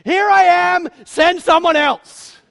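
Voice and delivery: loud, high, then slowly dragged out; reluctant dodge. Acted. Moses at the burning bush, loudly backing out slowly. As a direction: offer and then back out, dragging it. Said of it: "Moses stands before the burning bush".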